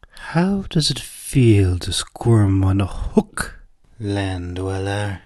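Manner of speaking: slow, whispered venom; venomous. Acted. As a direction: hiss it slowly with contempt. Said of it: "her voice filled with venom".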